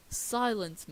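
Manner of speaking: loud royal command; commanding shout. Acted. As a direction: shout it down as a king. Neptune commands his daughter.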